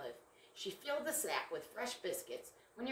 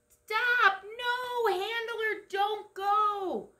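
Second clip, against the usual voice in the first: high, loud shout to stop the car; frantic shout; 13 semitones higher, 8 dB louder, much slower than usual. Acted. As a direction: scream at him to stop. Olive shouts warning at cliff.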